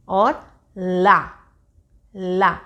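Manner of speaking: slow ला with the air out of the mouth, tongue at the teeth; ला, slow and open-mouthed; oral la demo. Shown as a demonstration. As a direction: draw out ला clearly for a child. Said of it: "मुंह से आवाज़ आ रही है ला में".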